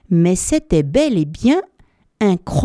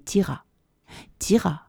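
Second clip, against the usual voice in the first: whispered, straining with effort; strained whisper; 3 dB quieter than usual. Acted. Narrator miming the elephant's pull, whispered. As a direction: breathe the words as you pull.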